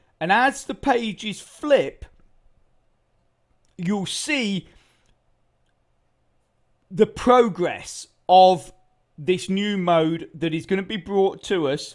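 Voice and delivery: speech broken by hiccups. Talking to an audience, with hiccups. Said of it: "got the hiccups".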